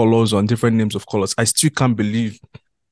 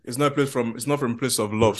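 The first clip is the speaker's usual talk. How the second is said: mouth full; 6 dB quieter than usual. Real, not acted. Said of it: "I'm away from the mic because I'm chewing".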